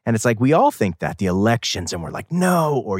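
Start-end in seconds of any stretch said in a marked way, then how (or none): 2.3-2.8 higher-pitched drawn-out no; mock dismay. Reacting to the elections, mock dismay. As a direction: imitate a voter crying out in dismay.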